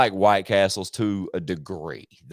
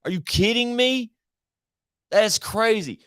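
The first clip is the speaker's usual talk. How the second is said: surprised; 13 semitones higher than usual. Real, not acted. Reacting to closed Crystals story.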